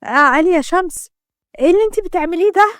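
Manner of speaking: mild scream, rising into a panicked question; acted frightened cry. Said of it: "روح صرخت بخوف".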